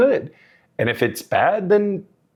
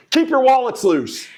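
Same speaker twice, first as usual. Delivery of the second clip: catchphrase; 11 semitones higher, 3 dB louder than usual. Shown as a demonstration. Restarted sign-off catchphrase.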